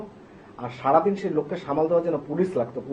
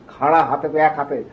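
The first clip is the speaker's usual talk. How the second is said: normal talking voice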